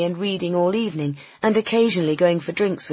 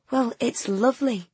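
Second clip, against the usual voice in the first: appreciative; 6 semitones higher than usual. Acted. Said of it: "said Nina appreciatively".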